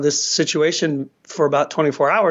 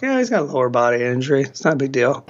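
quick, low, offhand brush-off; mock nonchalance; 4 semitones lower, faster than usual. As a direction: imitate someone casually playing it down. Mimicking teams downplaying a grave injury.

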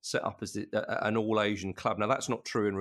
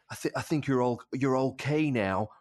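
fake mid-Atlantic accent; 2 semitones higher than usual. Dubbed physio reassuring a player, fake mid-Atlantic accent. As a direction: put on a slight faux American accent. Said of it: "some sort of mid-Atlantic kind of fake accent".

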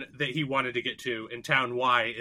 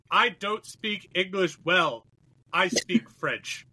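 put-on halting, very slow French-accented English; imitated French accent; 4 semitones higher, much slower than usual. Retelling a confused French passenger, slow imitated French accent. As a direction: feel for each word, mimicking a French speaker. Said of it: "no amount of French accent".

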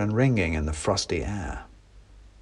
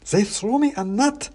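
wooden soldier; 12 semitones higher than usual. Acted. Klaus voiced in story.

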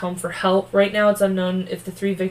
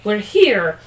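dramatic duel line; 7 dB louder, slower than usual. Acted. Quoting the sword men dramatically.

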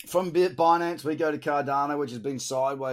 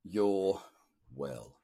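drowsy, drawn-out words; slow and sleepy after a massage; much slower than usual. Real, not acted. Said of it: "if I sound a bit sleepy".

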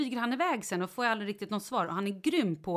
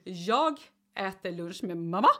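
martyr tone; slower than usual. Retold or imitated. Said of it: "då är jag ju martyr".

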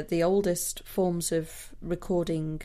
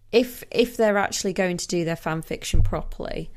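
mic bump; 3 dB louder than usual. Real, not acted. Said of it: "sorry, I just hit the mic there".

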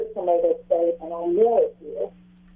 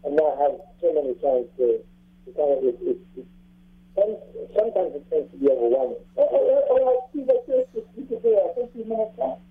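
underwater. Real, not acted. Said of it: "you guys sound like you're underwater".

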